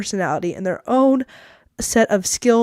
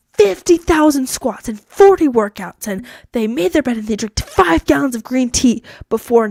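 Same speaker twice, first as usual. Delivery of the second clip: mock awe; 3 semitones higher, 4 dB louder than usual. Speaker mimicking someone scrolling past others' achievements, mock awe. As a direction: punch out each absurd figure incredulously. Mocking others' exaggerated social media feats.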